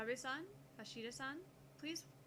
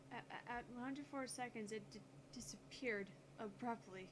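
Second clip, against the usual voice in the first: flustered stammer. Acted. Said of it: "She's quite flustered".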